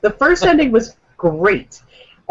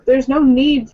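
angry robot voice; 6 semitones higher, slower than usual. Real, not acted. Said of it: "Just full of angry robot voice".

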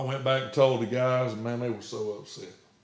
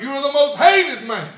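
laughing punchline; 15 dB louder than usual. Retold or imitated.

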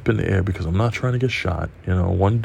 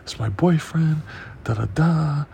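raised, insistent pleading imitation; retold screaming; 7 semitones higher than usual. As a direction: imitate a girlfriend pleading with police. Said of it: "She's fucking screaming".

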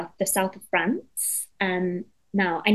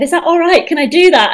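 asking permission; 8 semitones higher, 10 dB louder than usual. Retold or imitated. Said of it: "And she said".

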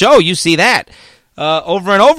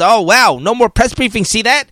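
mock media panic; 3 semitones higher than usual. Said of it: "but the media ran wild".

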